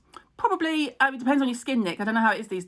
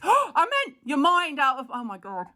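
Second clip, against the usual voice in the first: horrified gasp; 7 semitones higher than usual. Real, not acted. Correcting her slip to viewers, gasping in horror. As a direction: catch the slip in sudden horror.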